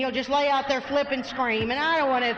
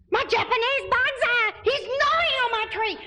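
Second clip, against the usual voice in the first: outraged cry; 9 semitones higher than usual. Retold or imitated. Outraged at squirrel on bonsai.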